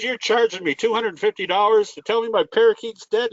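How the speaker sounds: a woman balking at the vet bill; lightly voiced huffy customer; indignant lady.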